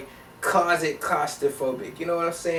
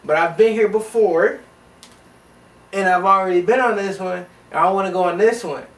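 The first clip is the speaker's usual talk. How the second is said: loud insistence; 3 semitones higher, 5 dB louder than usual. Retold or imitated. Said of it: "I'm like".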